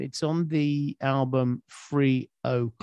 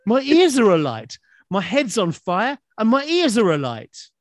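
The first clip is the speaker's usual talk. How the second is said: tag; 5 semitones higher, 3 dB louder than usual. Retold or imitated. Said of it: "And I'm thinking".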